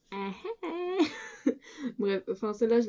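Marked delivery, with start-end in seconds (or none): 0.1-1.0 high giggly "ah, ah, ah"; awkward laugh. Real, not acted. Vlogger embarrassed by her German, high awkward laugh. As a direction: laugh off the clumsy attempt, pitched high.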